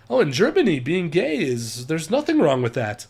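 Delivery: mock German accent, lilting; amateur German-accented English. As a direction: imitate a German gently explaining. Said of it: "my terrible German accent".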